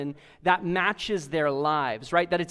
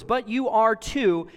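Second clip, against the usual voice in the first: "But you are too", slow and weighted word by word; "But you are too" in slow, deliberate beats; emphatic words; 3 semitones higher, 3 dB louder than usual. Acted. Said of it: "four emphatic words".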